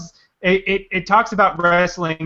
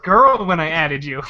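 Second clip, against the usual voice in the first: normal talking voice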